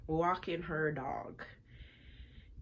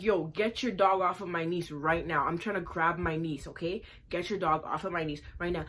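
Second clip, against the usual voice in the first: angry demand; 3 dB louder than usual. Retold or imitated. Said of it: "I'm like".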